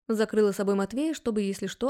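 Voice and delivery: plain reading voice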